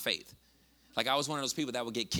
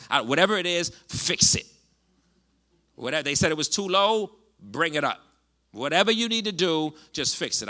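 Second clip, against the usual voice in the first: fervent prayer; 2 semitones lower, 4 dB louder than usual. Retold or imitated. Retold desperate prayer over wife.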